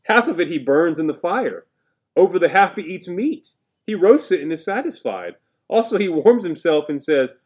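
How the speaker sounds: heated emphasis. Acted. Preacher emphasising folly.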